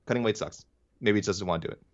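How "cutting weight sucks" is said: softer repeat, half to himself; quiet echo. Real, not acted. Host repeating his complaint to himself, softer. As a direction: let it fall away as an afterthought.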